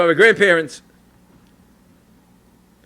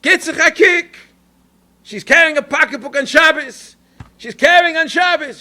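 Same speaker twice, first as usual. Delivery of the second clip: high, loud, slow scandalized cry; a loud grandmother voice, meant to be overheard; 9 semitones higher, 5 dB louder, slower than usual. Retold or imitated. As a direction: grandmother loudly scandalized so the lady hears. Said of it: "says to me in a loud voice".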